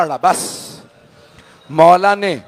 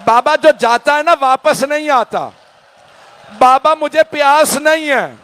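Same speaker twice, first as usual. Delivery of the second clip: put-on higher, rising child's plea, slowing on the begging; young daughter pleading with her father, high and tearful; pleading little girl; 4 semitones higher than usual. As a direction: beg like a small daughter not wanting her father to go. Little Sakina begs her father.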